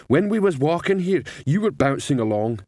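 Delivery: a hint of a troll chatting; Cliff the troll. A narrator's reading. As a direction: put on a light troll voice.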